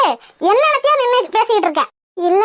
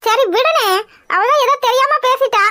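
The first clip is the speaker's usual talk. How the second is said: tearful plea; 3 semitones higher than usual. Real, not acted. Wife pleads with angry husband.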